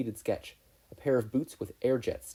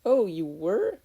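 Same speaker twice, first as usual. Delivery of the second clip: high, louder, startled question; surprised; 10 semitones higher, 6 dB louder, much slower than usual. A narrator's reading. Boy realising she was joking, surprised. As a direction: caught off guard.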